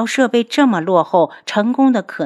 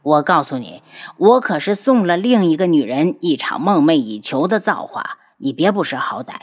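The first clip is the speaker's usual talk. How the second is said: a lower, self-satisfied voice; smug ghost doctor; 3 semitones lower than usual. Acted. Ghost doctor smugly lectures the captive girl, lower and gloating. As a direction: gloat over what she will gain. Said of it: "随后又得意的道".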